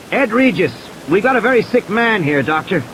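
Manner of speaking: Ed begging the doctor to treat the sick man; urgent Ed. A narrator's reading. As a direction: urge the doctor to help, fast. Ed urgently introduces himself.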